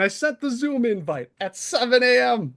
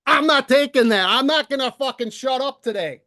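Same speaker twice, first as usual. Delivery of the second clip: defiant anger; 3 semitones higher than usual. Real, not acted. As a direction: refuse to be silenced, angrily. Defiant rant at Tom.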